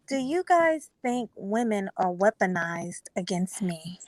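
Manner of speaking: soft breathy ASMR whisper. Pretend. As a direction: whisper it close to the mic. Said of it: "start speaking your A S M R voice".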